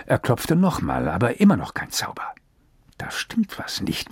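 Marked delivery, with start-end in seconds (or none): 3.0-4.1 whispered under his breath, slowly; slow, worried murmur. A narrator's reading. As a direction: mutter the worry to yourself. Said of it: "murmelte er".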